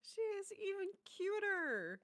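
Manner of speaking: high, drawn-out gush. Real, not acted. Fan gushing over a cute game character, high adoring coo.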